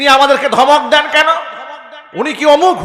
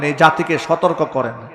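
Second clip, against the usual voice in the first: normal talking voice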